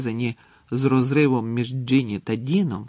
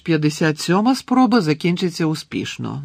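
loud, higher-pitched bitter scoff; bitter irony; 5 semitones higher, 7 dB louder than usual. A narrator's reading. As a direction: doubt it aloud with a bitter edge. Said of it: "гірко всміхнувся Гаррі". (гірка іронія, голосно)

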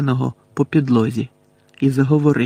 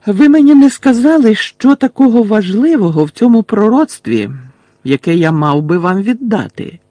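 loud, high-pitched demand; raised voice, starting high and easing down; stalling for time; 8 semitones higher, 7 dB louder than usual. A narrator's reading. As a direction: challenge them loudly to buy time. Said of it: "почав він тягти час".

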